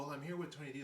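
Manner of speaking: softened, hushed aside, still voiced; imitated whisper. Julia confiding in the executive, imitated hushed aside. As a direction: confide it under your breath, lightly imitated. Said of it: "Julia's whispering".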